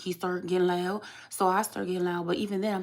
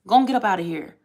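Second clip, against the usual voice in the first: dismissive; 5 dB louder, faster than usual. Real, not acted. Dismissing commenter.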